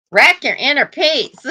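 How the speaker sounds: amused. Real, not acted. Laughing about sassy baby.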